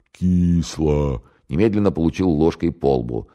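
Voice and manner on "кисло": plaintive complaint. Acted. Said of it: "скорчил жалобную рожу и пожаловался".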